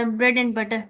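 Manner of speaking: "and" reduced to "an" between "bread" and "butter"; dropped d sound. Shown as a demonstration. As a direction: lose the d at the end of "and". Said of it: "अब डी sound जो है वो बिल्कुल क्या हो जाती है".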